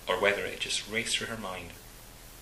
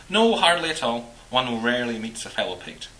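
Scottish man voice; 3 semitones higher, 9 dB louder than usual. Acted. Walter voiced by narrator.

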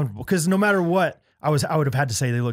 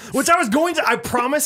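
laughing while talking; 12 semitones higher, 3 dB louder than usual. Real, not acted.

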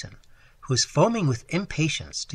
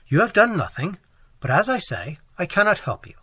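raised, higher, with effort; strained, forced out; 6 semitones higher, 5 dB louder than usual. A narrator's reading. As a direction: force the refusal out. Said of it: "but speaking with some difficulty".

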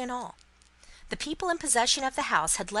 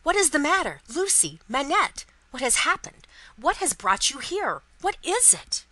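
loud, high-pitched, alarmed questioning; agitated cries rising in pitch; breathless confusion; 6 semitones higher, 6 dB louder than usual. A narrator's reading. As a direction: fire off bewildered questions in alarm. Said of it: "breathless and confused".

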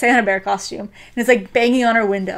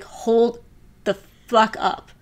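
slow, much louder outburst on I like Ryuji; hammed-up realization, louder and slower at the end; sudden realization; 8 dB louder, slower than usual. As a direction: blurt it out as it finally dawns on her. Taiga's realization, crying.

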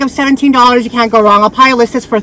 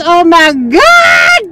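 drawn-out gush; 7 semitones higher, 7 dB louder, much slower than usual. Real, not acted. Gushing over the pendant.

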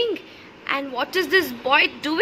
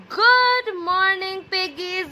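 cheery greeting; 4 semitones higher than usual. Shown as a demonstration. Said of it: "Can all of y'all say".

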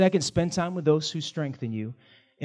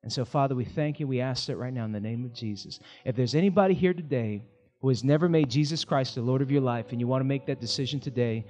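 prayer. Acted. Pastor praying over the congregation at the close, gentle prayer. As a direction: pray gently over the room. Closing prayer and altar call.

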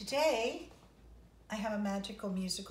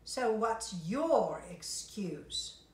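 grumpy; 4 dB louder, slower than usual. Acted. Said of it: "said the conductor".

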